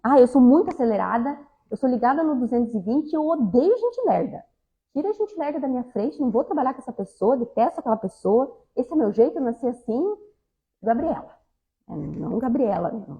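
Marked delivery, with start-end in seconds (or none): 0.0-11.4 lively mock rant of someone always in a rush; imitating impatient person. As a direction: rattle off proud intolerance, lightly hammed-up. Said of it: "sabe aquela pessoa que diz". (imitação de pessoa acelerada e impaciente)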